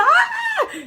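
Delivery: very high mock scream; hammed-up panicked squeal; imitated shriek. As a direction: shriek like a frightened churchgoer. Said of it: "y chillando como que había pasado algo".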